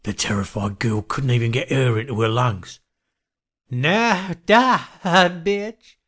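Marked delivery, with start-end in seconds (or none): 3.7-6.0 high, violent killer's threat. A narrator's reading. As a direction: attack with a raised, pitched-up voice. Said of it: "Johnny became extremely violent".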